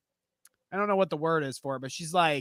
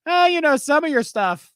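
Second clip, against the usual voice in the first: higher, louder fussy critic voice; mock snooty critic; 9 semitones higher, 5 dB louder than usual. Client criticizing the tattoo artist mid-session, snooty. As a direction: pick at the work like a snob.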